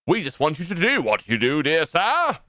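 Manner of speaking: lifted take, rising on the last word; insistent plea. Acted. Line repeated with changed delivery.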